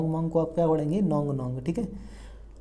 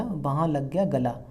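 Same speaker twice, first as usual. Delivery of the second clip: slow mnemonic; 2 semitones lower, slower than usual. Shown as a demonstration. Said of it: "क्या लग गया?".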